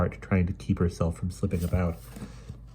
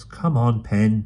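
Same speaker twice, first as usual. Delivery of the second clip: urging; 4 semitones higher, 5 dB louder, much slower than usual. Acted. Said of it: "Dido urged".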